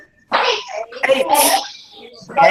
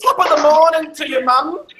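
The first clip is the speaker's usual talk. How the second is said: higher-pitched mock Irish greeting; Irish accent; 4 semitones higher than usual. Telling pupils how to greet mum, Irish accent. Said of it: "with your best Irish accent".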